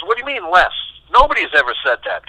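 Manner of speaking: retold disbelief. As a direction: echo Johnny's puzzled surprise. Johnny baffled by request to play less.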